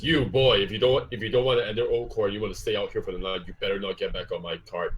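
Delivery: shouted start that fades to a mutter; yelling driver. Acted. Driver yelling at the stranded boy, mock yell. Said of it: "he yells over the edge".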